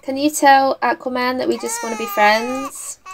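half-laughing fake sob; tearful, hammed-up disbelief; teary mock lament over the game; mock crying. Mock tears over Sim baby.

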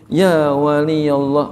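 slow and hushed, calling a saint gently; speaking gently so the young saint won't run off; soft, gentle call. Retold or imitated. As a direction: address him softly and tenderly, unhurried. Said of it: "dengan suara yang lirih, suara yang lembut".

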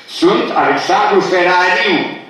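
Ferariu said in the presenter's own way, as he introduces himself; imitating his pronunciation. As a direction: mimic how he says Ferariu. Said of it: "Așa se prezintă".

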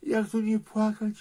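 tearful lament. Real, not acted. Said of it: "Nie płacz, Krzysiek".

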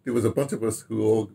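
ordinary talk

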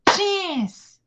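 PATINS in two separated beats, pa and tins; split into syllables. Shown as a demonstration. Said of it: "Quantas sílabas?". ("Patins" pausado, em duas sílabas)

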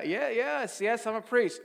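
high, loud repeated yeses; acted nervous admission. Priest admitting it to a scary stranger, nervous high reply.

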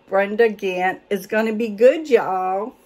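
put-on a light, playful Southern accent; mock Southern accent. Reading out the book's author in a light Southern accent. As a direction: lean into a Southern accent for fun. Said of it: "I'm getting good on that Southern accent".

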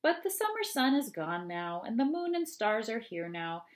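expressive read-aloud of a rhyming poem. Acted. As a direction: read it to the children with lively rhythm. Reads ogre poem aloud.

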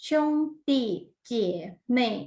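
"ช่งตี้ เจ๋ยเม่ย" broken up with pauses; pronunciation drill. Shown as a demonstration. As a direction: model "ช่งตี้ เจ๋ยเม่ย" piece by piece. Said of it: "ทวนการออกเสียงอีกครั้งหนึ่ง".

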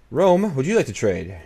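high, loud, slow and coaxing; wheedling trade pitch to Rome; sing-song offer. Pretend. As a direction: sweet-talk the AI into a deal.

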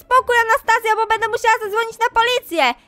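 angry shouting. Acted. Mother chasing the bad online friend away, yelling. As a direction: drive her out the door.

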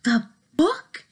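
very high alarmed ends; shocked question. Acted. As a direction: squeak it in alarm. Gerald shocked by ending.

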